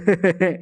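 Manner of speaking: short acted chuckle; mocking laugh. Onlookers laugh when the punch does nothing, short mocking laugh. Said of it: "हंसी आ जाती है".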